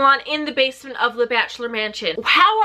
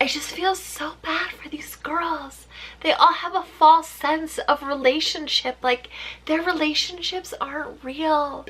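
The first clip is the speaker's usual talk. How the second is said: mock Crystal; 3 semitones higher, 4 dB quieter than usual. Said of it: "she's just sitting there like".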